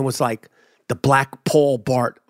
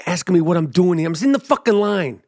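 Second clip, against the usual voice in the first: pretend rant; 5 semitones higher than usual. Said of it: "I didn't say it like that".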